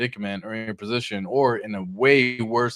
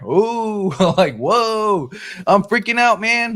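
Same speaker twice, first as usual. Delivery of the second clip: much higher and louder hammed-up freak-out; mock panic; 8 semitones higher, 5 dB louder, much slower than usual. Vlogger mocking viewers scared of a small dip, hammed-up panic. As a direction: fake alarm, pitched way up.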